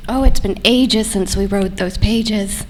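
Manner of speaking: slow, eerie singsong rhyme; creepy rhyming voice. Pretend. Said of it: "Rhyming, uh, very creepy".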